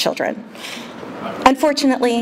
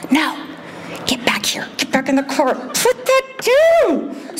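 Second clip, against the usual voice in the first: whisper yelling; 8 semitones higher than usual. Retold or imitated. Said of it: "whisper yell to my kids".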